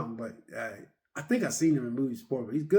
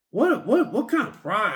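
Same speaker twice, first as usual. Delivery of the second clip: high, louder disbelief; incredulous; 5 semitones higher, 4 dB louder than usual. Retold or imitated. Telling his reaction to the movie, high incredulous outburst. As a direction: blurt it out, astonished.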